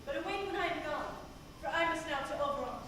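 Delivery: soft, hushed voice over sleepers; hushed spell. Acted. Puck sneaks over sleeping lovers.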